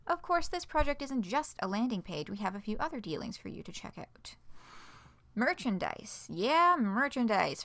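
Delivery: lively, scripted news-post delivery; announcement read-aloud. Acted. Spokesperson sharing the merch store with fans, announcement read-aloud. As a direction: read it out like a cheerful site announcement.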